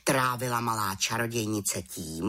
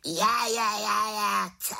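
mocking raven; 11 semitones higher than usual. A narrator's reading. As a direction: crow with glee at her mistake. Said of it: "krákal havran".

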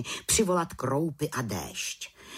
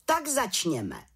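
head witch calling; 7 semitones higher, slower than usual. A narrator's reading. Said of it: "zvolala vrchní čarodějnice".

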